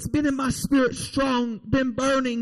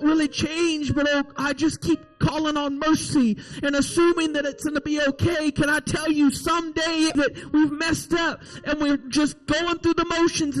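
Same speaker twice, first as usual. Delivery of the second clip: urgent, driving sermon delivery; fervent preaching. Real, not acted. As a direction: preach it with rolling, insistent emphasis. Preacher exhorts and prays aloud.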